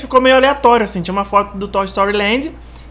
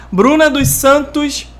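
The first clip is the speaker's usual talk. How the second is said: slow; 4 semitones higher, much slower than usual. Shown as a demonstration. Slow deliberate name reading.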